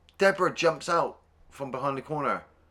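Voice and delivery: ordinary talk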